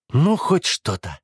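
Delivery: slow, impatient, in a changed voice. Acted. Brother impatiently reaching for the photos. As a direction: drag it out, itching to grab it. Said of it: "нетерпеливо проговорил Оливер".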